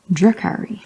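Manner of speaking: "Drukari" with a short u as in drum; "Drukari" with a short, unrounded first vowel; corrected pronunciation. Shown as a demonstration. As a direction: practise "Drukari" as DRUH-kari. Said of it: "was pronouncing that wrong".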